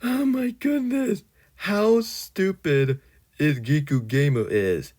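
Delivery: very high, slow exasperated squeal; squeaky disbelief. Real, not acted. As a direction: shriek it in disbelief. Mocking disbelief at rival.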